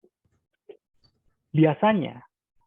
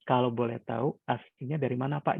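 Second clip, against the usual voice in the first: calm polite asking; 3 dB quieter than usual. Shown as a demonstration. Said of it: "ada intonasi-intonasi yang memang kita desain".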